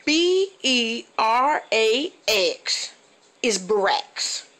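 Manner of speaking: B E R A X spelled slow, then Brax said short; spelled out slowly. Shown as a demonstration. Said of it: "for the rest of America".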